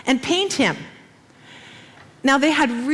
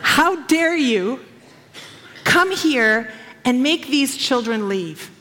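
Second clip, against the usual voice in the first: indignant scolding; 2 semitones higher, slower than usual. Retold or imitated. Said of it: "they were gonna get all of it".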